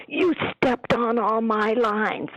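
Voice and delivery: high, drawn-out mimicked complaint; mock quarrel. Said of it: "they got in a big fight".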